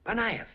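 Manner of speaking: Panayev said high and ringing; grand pronouncement. Shown as a demonstration. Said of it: "name said again, grander".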